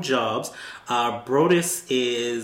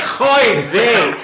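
put-on Jewish accent; 6 semitones higher, 7 dB louder than usual. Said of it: "he did a Jewish accent".

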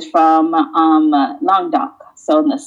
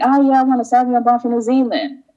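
naive customer; 6 semitones higher, faster than usual. Retold or imitated. Her own naive request in shop.

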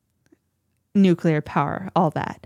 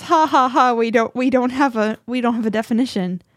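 imitated "ha, ha, ha" chuckle, raised pitch easing back down; mock dismissive laugh; 3 semitones higher than usual. Podcast host imitating an AI executive dodging a question, mock laughing it off. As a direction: brush it off with a fake spoken laugh. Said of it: "laughs about it and says".

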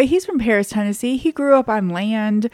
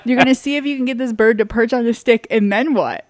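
scoffing disbelief; 4 semitones higher, 4 dB louder than usual. Retold or imitated. Mocking husband's plan.

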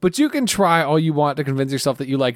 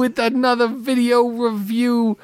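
lightly voiced YouTube host; Watso impression; 7 semitones higher than usual. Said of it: "that is not what Watso sounds like".

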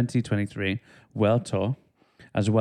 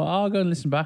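imitating past self; 8 semitones higher, much faster than usual. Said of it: "but I thought".

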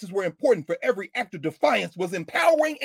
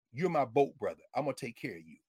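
gentle reassurance; 7 semitones lower, 6 dB quieter than usual. Retold or imitated. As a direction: lower voice, softening towards the end. Older man comforting a child, retold.

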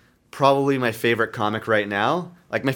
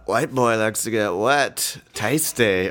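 fake Asian accent; 2 semitones lower, slower than usual. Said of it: "white guy pretending to be Asian".

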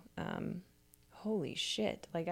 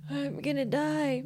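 mock panic; 7 semitones higher, 3 dB louder, slower than usual. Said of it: "I was very serious of".

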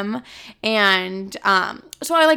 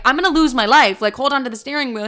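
retold panic; 4 semitones higher, 5 dB louder than usual. Panicking in swerving car.

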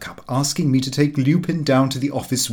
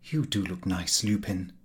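encouraging; 5 semitones lower, 8 dB quieter than usual. A narrator's reading. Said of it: "by way of encouragement".

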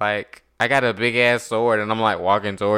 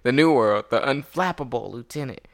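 movie trailer voice. Acted. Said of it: "let me get my movie trailer voice".

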